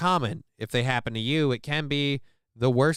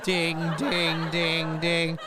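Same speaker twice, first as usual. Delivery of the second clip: evenly repeated mock clanging; laughing sound-effect dings; imitated metallic banging; 3 semitones higher, much slower than usual. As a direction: imitate a clanking noise, one beat at a time. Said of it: "that's what it sounds like".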